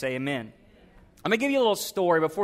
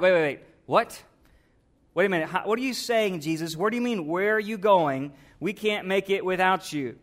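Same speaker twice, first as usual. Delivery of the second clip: mildly alarmed disbelief, firm opening; acting out confused followers questioning their leader; bewildered disciples. Disciples to Jesus on hearing he will die, bewildered.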